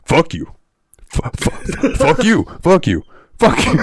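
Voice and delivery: lightly voiced neighbor, repeating the curse in bursts; imitated other voice. Other neighbor cursing over the first, imitated retort. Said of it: "the other voice is just going".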